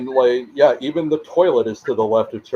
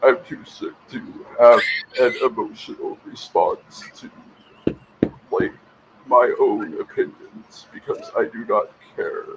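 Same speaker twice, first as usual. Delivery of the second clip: Chomsky voice. Acted. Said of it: "you do a great Chomsky voice".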